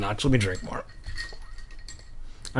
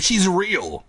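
high cry; 6 semitones higher than usual. Acted. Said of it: "she screamed".

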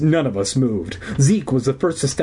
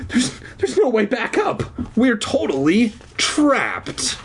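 dread; 12 semitones higher than usual. A narrator's reading. Trapped, stammering dread.

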